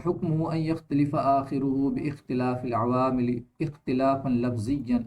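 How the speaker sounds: slow, measured reading of the Arabic text; teacher reciting the Arabic rule before explaining it; Arabic text recitation. Shown as a demonstration. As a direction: recite the Arabic line slowly, word by word. Reads Arabic source text aloud.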